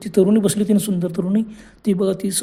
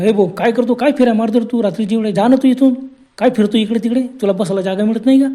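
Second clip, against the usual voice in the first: telling off; 3 semitones higher, 4 dB louder than usual. Acted. Vinod scolds the man again.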